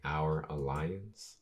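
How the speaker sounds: low, soft, slow question; subdued, slow query; quiet. Acted. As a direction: ask it quietly, drawn out and low. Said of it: "kinda quiet, being like".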